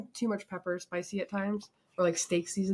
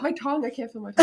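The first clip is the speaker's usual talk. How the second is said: fast and louder, tongue on fire; panicked complaint; 3 semitones higher, 5 dB louder, faster than usual. Real, not acted. To her sister, tongue burning, rushed and loud.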